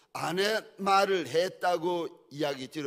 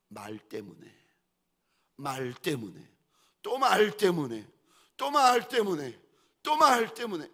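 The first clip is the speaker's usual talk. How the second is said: building emphasis; 4 dB louder than usual. Acted. Preacher to congregation, naming the cause, building from hush to loud cry. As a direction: hammer the phrase harder each time. Preacher driving home repeated phrase.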